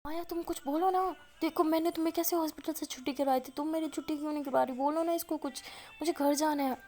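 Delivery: retold whiny-urgent plea, voice lifted; acted pleading. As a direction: plead with a friend to speak up. Begging friend to back her.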